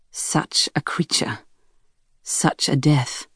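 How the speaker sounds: slow, hushed whisper. Acted. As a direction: breathe it to yourself slowly. Private thought on the dead whale.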